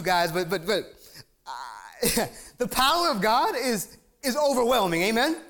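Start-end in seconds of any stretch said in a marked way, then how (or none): 2.6-5.4 overwhelmed by God's power; excited. Real, not acted. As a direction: preach it with rising excitement. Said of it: "It gets me so excited".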